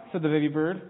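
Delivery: lively storybook reading with small character voices; reading to children. A narrator's reading. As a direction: read the picture book to the kids with gentle expression. Reads children's picture book aloud.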